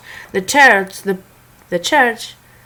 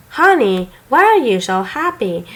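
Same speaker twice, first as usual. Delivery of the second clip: wife's voice; 3 semitones higher than usual. Acted. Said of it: "Amber asks me".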